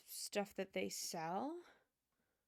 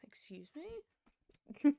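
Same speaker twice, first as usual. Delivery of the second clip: breathless unvoiced whisper, slow; hushed, drawn-out excuse me; whispered aside; 5 semitones higher, 6 dB louder, much slower than usual. Real, not acted. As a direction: whisper it to someone off to the side. Interrupted mid-story, whispering aside.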